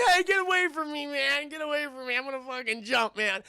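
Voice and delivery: high-pitched, worked-up mock yell; agitated jumper. Jumper on the roof to the approaching cop, agitated and high. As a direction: act out a man warning someone off. Man on ledge warns cop off.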